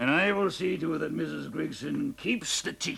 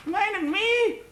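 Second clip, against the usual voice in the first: higher, louder scornful echo of minding me; louder drunken mockery; 14 semitones higher, 5 dB louder, slower than usual. Drunk husband mocking his wife's fussing, louder and higher. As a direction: throw the words back at her, louder and higher.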